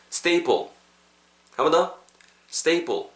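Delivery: Staple with a tense, unpuffed P; model pronunciation. Shown as a demonstration. Teacher has learners repeat Staple, modelling the tense P. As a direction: say Staple like 스테이뻘 for others to repeat. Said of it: "Repeat after me".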